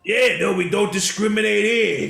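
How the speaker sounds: high-pitched vendor voice; shrimp salesman. Acted. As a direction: brush off the complaint in a high character voice. Game master plays the shrimp salesman.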